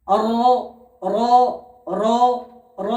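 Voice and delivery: র with the tongue sides on the palate; careful letter drill; Arabic letter demo. Shown as a demonstration. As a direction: repeat র clearly. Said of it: "র উচ্চারণ হয়".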